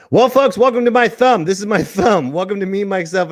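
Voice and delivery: loud joking laugh. Real, not acted. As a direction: laugh through the welcome. Joking about thumb on camera.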